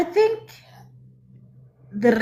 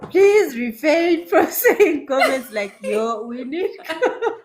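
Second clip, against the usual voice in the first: laughing; 2 semitones higher than usual. Real, not acted. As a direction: giggle through it. Laughing while telling a story.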